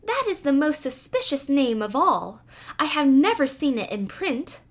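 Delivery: a hint of a mouse catching on; suspicious mouse. Mouse suspecting the cat, light suspicious voice.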